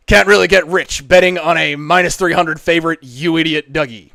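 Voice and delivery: put-on American accent, starting loud. Shown as a demonstration. Streamer reading chat for the audience, in an American accent. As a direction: read it out in a performed American accent. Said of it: "nothing but an American accent".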